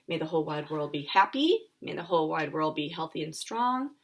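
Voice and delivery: steady, gentle recitation; calm meditation voice; guided kindness phrases. Acted. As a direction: send the wish out to everyone.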